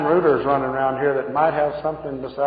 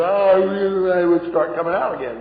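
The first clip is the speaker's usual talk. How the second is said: demon stirring; 5 semitones higher, 3 dB louder than usual. Retold or imitated. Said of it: "and she'd go".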